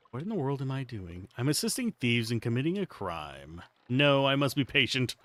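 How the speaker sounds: lightly voiced knight muttering to himself; quiet inner thought. Knight's inner doubt, read quietly.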